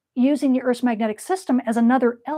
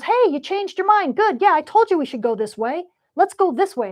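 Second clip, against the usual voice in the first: smug delight; 7 semitones higher, 3 dB louder than usual. Acted. Voltage pleased current turned.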